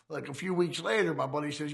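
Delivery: ordinary talk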